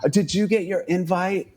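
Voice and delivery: a hint of a chatty drag queen asking around; mock gossiping queen. Imitating queens asking about invites.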